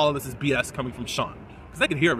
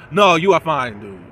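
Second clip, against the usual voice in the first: louder, emphatic Black American vernacular; 5 dB louder, slower than usual. Shown as a demonstration. Reviewer complimenting Sean, emphatic Black American voice. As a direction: say it big in Black American style. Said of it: "That's how we say it in our culture".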